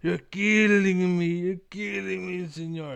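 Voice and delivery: high, loud hammed-up cartoon wail in a Mexican accent; mock screaming plea. Slowpoke clinging to the desk, hammed-up screaming plea. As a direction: ham up a desperate cry. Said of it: "screaming and crying".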